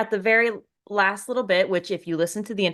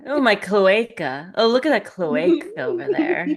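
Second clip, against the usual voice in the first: fancy voice. Pretend. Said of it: "trying to sound fancy".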